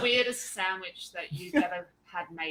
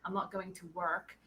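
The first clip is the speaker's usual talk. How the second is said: walk and work told apart with a clear American R in work; careful American work versus walk; American accent demo; 5 dB quieter than usual. Shown as a demonstration. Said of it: "That was American accent was very good".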